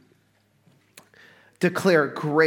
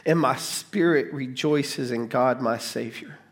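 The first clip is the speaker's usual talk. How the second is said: scripture reading; slower than usual. Acted. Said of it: "It says".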